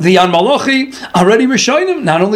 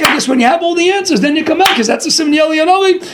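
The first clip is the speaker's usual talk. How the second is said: higher, laughing, playfully overjoyed then let down; a hint of a rabbi's mock delight, pitched up; mock excitement; 5 semitones higher than usual. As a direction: tease him with feigned disappointment. Rabbi feigns excitement, then disappointment.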